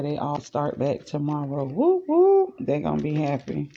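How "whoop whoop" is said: excited. Real, not acted. Kids back to school.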